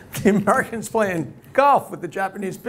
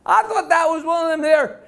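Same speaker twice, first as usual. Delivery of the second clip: slow, high Texas drawl; put-on Texan accent, raised pitch; Texas girl; 6 semitones higher than usual. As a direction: draw it out like a girl from Dallas, Texas. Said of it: "Dallas, Texas".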